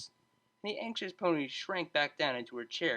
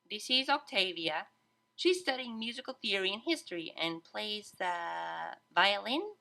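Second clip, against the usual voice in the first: hopeful; 6 semitones higher than usual. A narrator's reading. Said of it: "she said hopefully".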